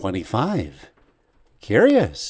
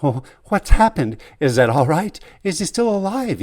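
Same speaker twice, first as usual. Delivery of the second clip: louder, urgent and pressing; urgent questions; 7 semitones higher, 4 dB louder than usual. Acted. Nephew presses the dying servant, urgent and worried. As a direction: demand an answer, anxious. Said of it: "you ask urgently".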